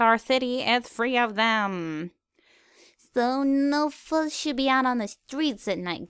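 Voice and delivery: a hint of a stately princess giving orders; lightly voiced princess commanding guards; regal princess. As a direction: decree it in old royal speech. Luna voices royal decree.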